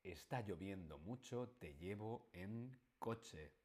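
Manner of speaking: soft, unhurried kindness; tender offer. Shown as a demonstration. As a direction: say it like a caring friend offering to drive you. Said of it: "Qué alegría cuando está lloviendo mucho y alguien nos dice".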